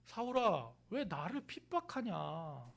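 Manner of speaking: soft, slow, sorrowful asking; gentle question. Acted. Jesus gently asks Saul why he persecutes him, soft. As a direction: ask with hurt love, not anger. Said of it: "라고 물으십니다".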